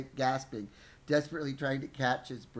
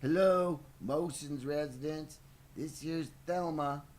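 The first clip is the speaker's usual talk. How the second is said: higher, drawn-out mock housekeeper voice; put-on phone persona; 4 semitones higher, 4 dB louder than usual. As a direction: answer the phone as a caricatured Thelma. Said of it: "of ethnic slur".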